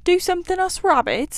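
a silly rabbit who cannot imagine helping; astonished rabbit. Acted. Rabbit amazed at the idea.

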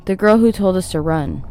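ordinary delivery

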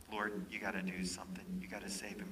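hushed pleading prayer; a quiet desperate plea to God; softly begging prayer; whispered prayer. Retold or imitated.

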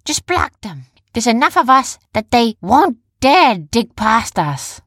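high, insistent story heroine; Jumba's character voice. A narrator's reading. Heroine urging her plan, high, insistent character voice.

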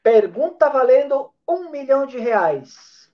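slow showman announcer delivery; game show host. Pretend. Silvio Santos show catchphrase.

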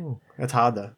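breathy whisper, half to himself; whispered aside. Real, not acted. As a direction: whisper it like a secret doubt. Teasing his TikTok quitting.

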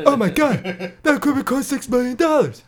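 mock angry outburst. Joins the impression, mock yelling.

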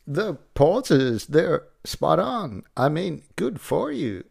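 a hint of Walken, halting pauses; lightly voiced Walken, pausing oddly; Christopher Walken impression. Comic host trying a Walken impression, lightly done. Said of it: "my impression of Christopher Walken".

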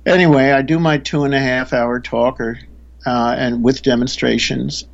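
usual speaking voice

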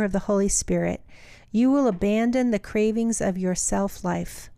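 measured reading aloud of a Bible passage; steady, deliberate Bible reading; scripture reading. Acted. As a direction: read the letter out evenly, phrase by phrase.

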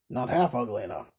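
low, understated dismissal; dismissive Tackleton. Acted. Tackleton answers toymaker's musing, dismissively.

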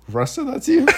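laughing disbelief. Retold or imitated. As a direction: burst out laughing as you ask. Kevin cracks up hearing Russ.

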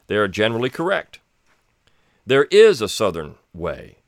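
measured, formal reading of an essay; steady essay reading voice; reading aloud. Acted. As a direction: read the passage like a printed page. Reads a 1957 essay aloud.

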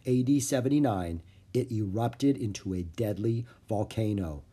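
reading the history caption aloud; reading from the book. A narrator's reading. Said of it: "Under the picture was written".

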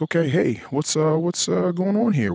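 put-on high friendly phone voice; high mock-cheerful voice. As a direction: play it sweet and innocent to an angry caller. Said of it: "I'm like".

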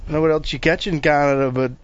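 put-on Canadian accent. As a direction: do a friendly Canadian thank-you. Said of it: "kick a little Canadian for us".

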